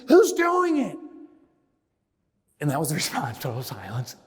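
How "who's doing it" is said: loud, high-pitched challenge to the crowd; high shouted demand; retold yell at audience. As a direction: yell the question out at the whole room. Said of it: "don't yell at the audience".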